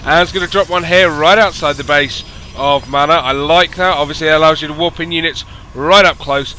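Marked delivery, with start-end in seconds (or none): none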